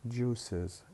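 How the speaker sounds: "juices" as two syllables, juice-iz; separate syllable. Shown as a demonstration. Teacher recalling the juice example, "juices" ending in a separate syllable. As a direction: give the ending of "juices" its own vowel. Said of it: "نلفظها كمقطع منفصل".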